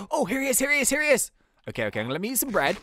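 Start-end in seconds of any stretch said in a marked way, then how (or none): 0.1-1.3 high, urgent repeated cry; excited, rising in pitch; excited discovery. Real, not acted. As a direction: blurt it out as you spot him. Spots the captive.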